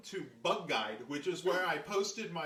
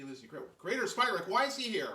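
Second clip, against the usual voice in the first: raised, higher imitated voice, blunt; not whispering; 3 semitones higher, 4 dB louder than usual. Executive questioning Julia in front of the visitor, imitated loud bluntness. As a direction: ask it out loud with no discretion. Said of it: "but Allie's not whispering".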